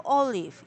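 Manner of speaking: OLive stressed at the start; olive, weight on the first syllable. Shown as a demonstration. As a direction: hit the OL in olive. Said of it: "the first syllable is stressed".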